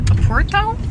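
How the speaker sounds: "Oporto" lifted high like a question; unsure pronunciation. Real, not acted. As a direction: try out "Oporto", unsure of the name. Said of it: "I might be completely mispronouncing that".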